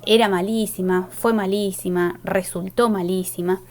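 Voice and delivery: era, fue and resultó stressed before malísima; verb filled in. Shown as a demonstration. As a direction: spell out the hidden verb. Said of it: "detrás de esa coma hay un". (verbo explícito acentuado)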